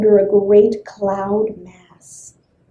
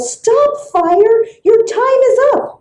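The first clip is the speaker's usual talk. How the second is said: yelling; 11 semitones higher than usual. Acted. Wind and rain yelling at fire, high shout. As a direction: order fire to stop, sharply. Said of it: "Wind and rain yelled".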